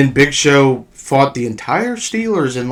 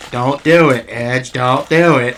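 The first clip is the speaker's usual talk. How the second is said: slow, even robot voice; slower than usual. Retold or imitated. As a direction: talk like a talking computer. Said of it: "like a robot voice that said".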